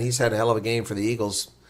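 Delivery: plain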